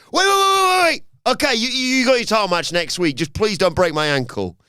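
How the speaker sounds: shrieked, high, loud mock panic easing into begging; panicked pleading. Trapped champion begging to save his ankle, hammed-up panic. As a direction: play a coward frantically giving in.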